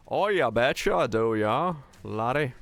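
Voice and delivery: hammed-up Canadian oh yeah, betcha, sliding into Scottish laddie; jokey mix of Canadian and Scottish accents; playful mock Canadian-Scottish accent for chat. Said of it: "I sound more Canadian today".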